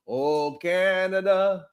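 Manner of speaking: light mock Canadian accent, drawn out; a teasing touch of a Canadian accent. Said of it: "That's how they say, right?".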